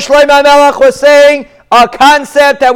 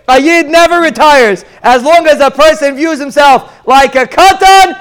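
higher-pitched, insistent sermon delivery; emphatic preaching; 3 semitones higher than usual. Real, not acted. Rabbi teaching his listeners about never retiring, emphatic preaching. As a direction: drive the point home, phrase by phrase.

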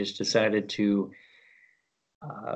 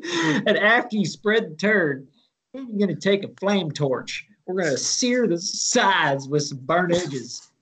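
put-on Southern country cook unveiling his toast in accent; Southern cooking-show accent; 4 semitones higher than usual. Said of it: "in a Southern accent".

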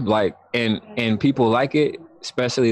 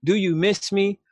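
put-on higher-pitched take-off of his New York accent; imitated New York accent; 5 semitones higher than usual. Recalling his a cappella opener, imitated New York accent. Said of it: "Oh, I love his accent".

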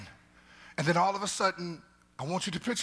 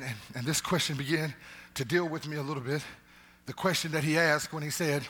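usual speaking voice

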